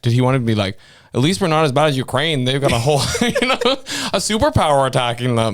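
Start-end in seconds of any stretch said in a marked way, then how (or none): 1.1-5.5 giggling through a mock politician line; half-laughing mockery; laughing mock quote. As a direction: laugh while quoting. Mocking imagined politician quote.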